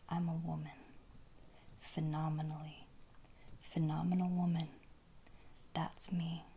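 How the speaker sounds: hushed ASMR poetry recital; measured, pausing whispered verse; whispered poem reading. Real, not acted.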